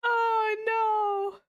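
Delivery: high, slow words through laughter; sympathy cracking into giggles; laughing pity. Real, not acted. Laughing viewer pities Jinchi, high giggly voice.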